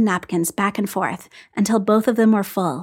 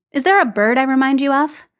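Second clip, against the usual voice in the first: Phil's voice; 5 semitones higher, 5 dB louder than usual. Acted. Phil's amused question.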